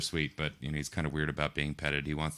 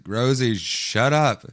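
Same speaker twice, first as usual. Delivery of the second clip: mock scolding; 7 semitones higher, 9 dB louder, much slower than usual. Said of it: "and she's like".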